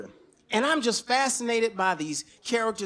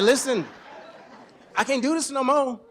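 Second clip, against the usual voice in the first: raised, firm declaration to his wife; 3 semitones higher, 3 dB louder than usual. Retold or imitated. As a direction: lay it down firmly and louder. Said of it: "I said".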